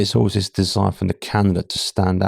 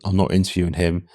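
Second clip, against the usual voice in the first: light imitation of a thick Irish accent. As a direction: quote the boss in a hint of an Irish accent. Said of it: "in a thick Irish accent".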